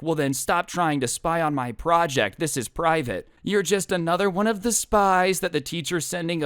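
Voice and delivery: paranoid accusation. Retold or imitated. Paranoid kid accuses spy.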